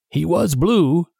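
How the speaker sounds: a grave, hushed nod of agreement; mournful pirate agreeing slowly; solemn. A narrator's reading. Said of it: "agreed solemnly".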